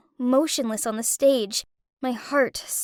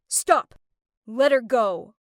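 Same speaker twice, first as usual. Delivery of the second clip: lightly voiced stern rescuer; sharp command. Kurt ordering the thugs to release Haley, sharply. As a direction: cut in firmly, a hint of menace. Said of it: "sharply say".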